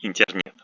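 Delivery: Internet as "intyernyet", by the book; softened consonants. Shown as a demonstration. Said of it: "according to the, the, the rules".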